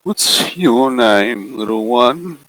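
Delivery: slow, coaxing looming figure; booming voice. Acted. Looming shadow coaxing a small girl, slow and sinister. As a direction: lure the girl out, drawn out slow. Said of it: "this booming voice once again".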